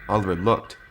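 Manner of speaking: usual speaking voice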